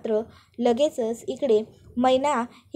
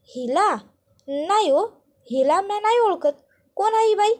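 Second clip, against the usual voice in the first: high-pitched, lightly nervous feigned ignorance; nervous denial; 8 semitones higher than usual. A narrator's reading. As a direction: act puzzled, rising higher as you deny it. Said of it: "ही थोडीशी घाबरते, nervous होते". (थोडं घाबरून, उंच आवाजात नकार)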